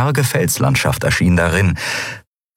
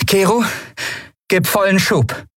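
higher, firm order to go full thrust; commanding captain; 13 semitones higher than usual. A narrator's reading. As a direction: call out the order, high and firm.

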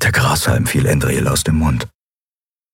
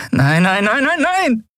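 nos climbing ever higher in panic; rising panicked nos. Acted. Endriel realises she forgot the password, rising panic. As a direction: spiral into dismay.

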